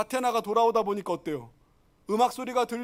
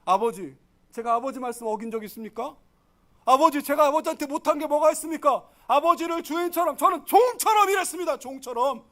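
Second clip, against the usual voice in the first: angry complaint; 2 semitones higher, 3 dB louder than usual. Acted. Elder son protesting to his father, angry. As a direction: protest your years of service, rising in pitch. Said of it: "승질내고 화를 내고".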